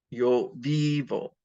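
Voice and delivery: Yo vivo slowly, stress on "vi"; second-last syllable stressed. Shown as a demonstration. Teacher demonstrating emphasis, slowly stressing vivo's "vi". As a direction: draw out the first syllable of vivo. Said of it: "it goes on the second last syllable".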